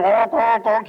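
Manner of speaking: loud mock goose honking; imitated goose honk. Goose takes up Chicken Little's alarm, imitated honking. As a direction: honk like a panicked storybook goose. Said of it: "So he went".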